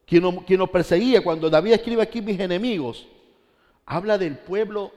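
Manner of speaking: loud, high, full-force preaching; preacher shouting the story of David; fiery preaching. Acted. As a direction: raise the roof on David's story. Preacher's climax about David.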